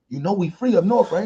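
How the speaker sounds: laughing, high mock plea. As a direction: laugh through the joke. Mock telling off Southerner.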